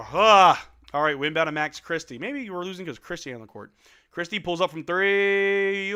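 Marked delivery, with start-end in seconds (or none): 0.1-0.7 a high loud anguished cry-sigh; a fan groaning at the losing run; loud despairing groan. Real, not acted. 4.1-5.9 slow, louder building call; calling the shot for chat; tense play call. Real, not acted.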